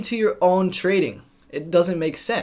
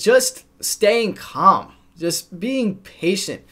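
calm and slow; much slower than usual. Shown as a demonstration. Advises staying calm and patient.

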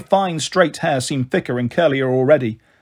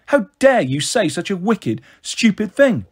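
indignant, rising higher and crosser; outraged scolding; 4 semitones higher than usual. Acted. Sister shaking her little brother, outraged. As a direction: scold him with real force.

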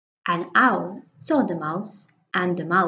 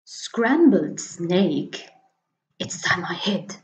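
scared snake. Acted. Snake hiding from the Gruffalo, whispered fear. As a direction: drop to a frightened whisper.

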